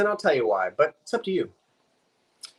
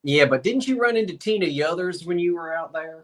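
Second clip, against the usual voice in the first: put-on Southern accent. Co-host playing along with a hunting tale, Southern accent. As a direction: join in the bit with a Southern accent. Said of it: "I don't know why I had to do the Southern accent".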